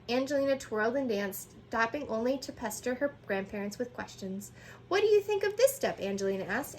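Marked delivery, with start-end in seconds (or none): 4.9-6.0 high, loud eager question; eager child. A narrator's reading. Angelina pestering grandparents, eager and high. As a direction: ask bursting with excitement.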